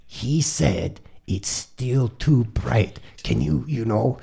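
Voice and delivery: very slow, spaced-out relayed message; lightly imitated patient interpreter; retold go-between. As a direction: spell it out slowly, word by word. Blondie translating again, patiently.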